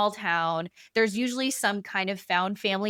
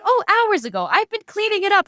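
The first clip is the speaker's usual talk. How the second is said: chirpy innocence; 12 semitones higher, 6 dB louder than usual. Retold or imitated. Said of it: "She's like".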